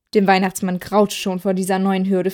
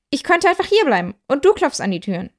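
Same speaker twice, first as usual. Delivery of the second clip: while chewing; 6 semitones higher than usual. Acted. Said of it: "sagte er kauend".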